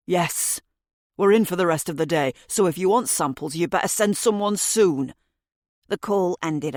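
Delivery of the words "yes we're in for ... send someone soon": lightly voiced resentful suspect; grudging suspect. A narrator's reading. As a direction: give in with bad grace. Suspect curtly ends the call.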